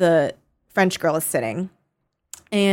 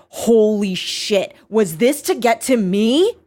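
slightly higher, acted-out disbelief; retold shocked realization; 3 semitones higher, 3 dB louder, slower than usual. Prisoner realizing she was set up, retold shocked disbelief. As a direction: voice her thought with mild mock shock.

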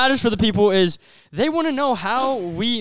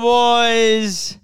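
frat bro; 2 semitones higher than usual. Acted. Hyped podcast intro greeting.

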